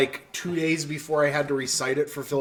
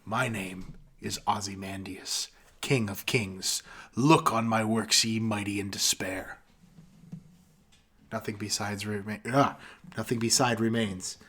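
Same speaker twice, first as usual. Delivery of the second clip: poem recitation; 3 semitones lower than usual. Acted. Finishing Ozymandias for friends, slow and hushed. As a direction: let it fade to a hush.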